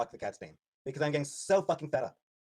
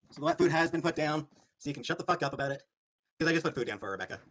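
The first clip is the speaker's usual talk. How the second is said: louder, irritated repeat aimed at the chat; fed-up snap; 3 dB louder than usual. Real, not acted. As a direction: bark it back at the nagging viewers. Snapping at chat about the cat.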